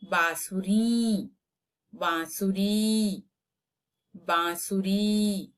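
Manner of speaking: slow bansuri, nasal बां; slow drill. Shown as a demonstration. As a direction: stretch बांसुरी for the class. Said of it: "pronunciation drill". (धीमा अभ्यास)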